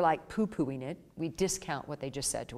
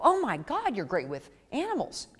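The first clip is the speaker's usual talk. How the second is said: gushing compliment; 5 semitones higher than usual. Retold or imitated. Client praising the groomer, mildly gushing. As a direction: gush over them. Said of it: "they go".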